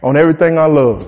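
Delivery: lightly voiced gangster threatening; a hint of a low gangster warning; gangster talk. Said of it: "this is gangster talk".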